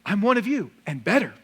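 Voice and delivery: lightly mocking politician bragging; mock political ad. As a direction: pitch it like a smug campaign ad. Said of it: "That's not what the political ads say".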